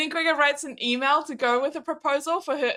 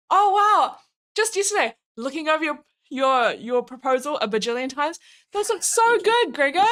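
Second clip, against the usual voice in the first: gushing; 2 semitones higher than usual. Retold or imitated. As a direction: gush over the proposal. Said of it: "mock gushing over proposal".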